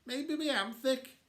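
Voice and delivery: near tears. Acted. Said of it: "bottom lip was starting to go".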